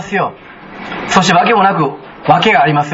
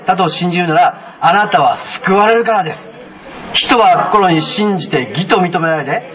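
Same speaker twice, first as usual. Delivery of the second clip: slow, measured Bible reading in unison; scripture reading; slower than usual. Acted. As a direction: read the verse slowly with the congregation. Congregation reads Romans aloud. (ゆっくり聖書朗読)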